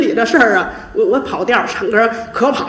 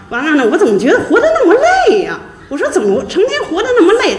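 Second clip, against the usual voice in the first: laughing while talking; 7 semitones higher, faster than usual. Real, not acted. Laughing at her own weariness.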